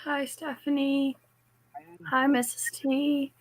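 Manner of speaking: raspy, worn-out voice after shouting; hoarse voice. Real, not acted. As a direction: speak through a sore, hoarse throat. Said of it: "Apologize for my voice".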